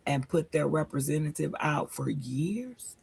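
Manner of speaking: whispered, slow confiding aside; hushed whisper. Real, not acted. Friend gossiping to listeners, hushed whisper. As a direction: lean in and whisper the secret.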